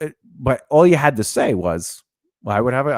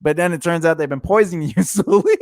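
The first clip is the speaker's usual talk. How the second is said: laughing; 5 semitones higher than usual. Real, not acted. Laughs through line.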